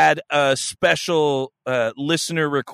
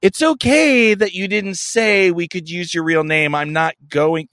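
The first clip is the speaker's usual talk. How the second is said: mock-gentle passive-aggressive reassurance. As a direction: imitate someone being pointedly understanding. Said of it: "I'm just going to gently be like".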